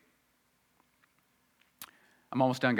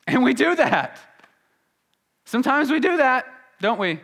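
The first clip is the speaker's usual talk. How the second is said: forceful preaching; 12 semitones higher, 8 dB louder than usual. Real, not acted.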